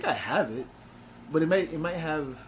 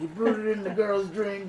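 Bill Cosby impression; 6 semitones higher, 3 dB louder than usual. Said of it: "He's like".

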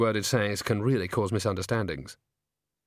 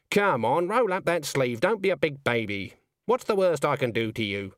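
put-on brisk old woman; 3 semitones higher than usual. Granny voiced in story.

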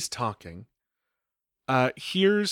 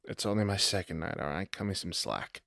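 sheepish plea; 5 semitones lower, 6 dB quieter than usual. Acted. Paige embarrassed, after a sigh.

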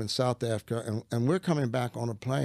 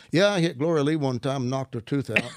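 joking answer. Retold or imitated. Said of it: "I thought it was funny".

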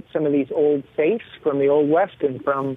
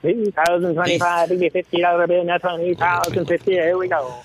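auctioneer; 3 semitones higher than usual. Pretend. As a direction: rattle off bids like an auctioneer. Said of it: "do a spiel for that?".

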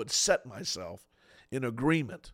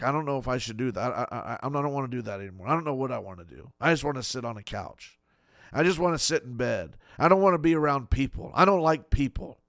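whiny complaint; faster than usual. Retold or imitated. Voicing a discouraged believer.

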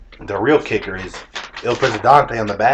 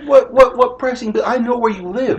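mock menacing collector; 13 semitones higher than usual. Threatening collector bit.

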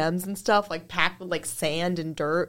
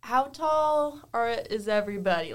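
patient worker question; 3 semitones higher than usual. Retold or imitated. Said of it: "And I'm like".

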